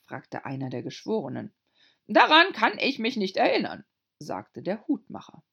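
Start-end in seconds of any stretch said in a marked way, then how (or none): 2.1-3.9 timid little hatter. A narrator's reading. Hatter voiced.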